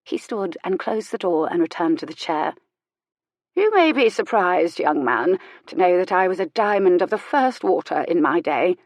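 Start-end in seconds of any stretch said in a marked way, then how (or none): 3.6-8.8 a hint of a proud old dowager; lightly voiced old woman, boasting; old Lady Fenimore. Old lady boasts to the young reverend, lightly proud.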